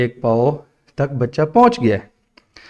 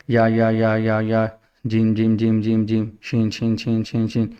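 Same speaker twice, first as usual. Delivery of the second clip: letters gabbled in quick succession; rushed repetition; 3 semitones lower than usual. Shown as a demonstration. Teacher mimicking a child reading too quickly, rushed. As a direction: rattle the letters off too fast. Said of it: "یہ جلدی ہے".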